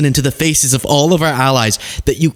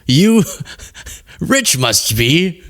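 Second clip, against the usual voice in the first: a light Yoda impression with the words backwards; much slower than usual. Host doing Yoda over the Toyota clip, slow and croaky. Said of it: "that was a reference to Yoda".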